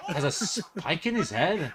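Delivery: high, incredulous question through laughter; laughing disbelief. Real, not acted. Viewer echoing the man's odd words, laughing in disbelief. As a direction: repeat it cracking up, unable to believe it.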